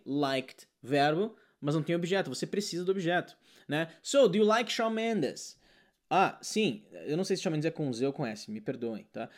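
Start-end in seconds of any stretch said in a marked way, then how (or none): 4.0-5.6 very slow quizzing tone; slow question. Retold or imitated. Teacher repeats the student question, slow. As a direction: drag the question out.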